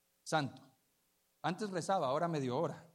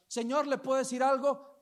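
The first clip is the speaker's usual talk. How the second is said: lightly voiced pleading stranger, higher and louder; woman approaching; 9 semitones higher, 8 dB louder than usual. A stranger stops a shopper to ask something, lightly imitated appeal. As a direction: call out to a passing man, pitched up. Acting out woman asking for help.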